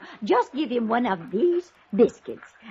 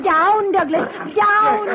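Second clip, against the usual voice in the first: high, sharp command to a dog; 10 semitones higher, 4 dB louder, much slower than usual. Acted. Lady ordering her jumping dog down, sharp and high. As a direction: get the dog off him, firm and high.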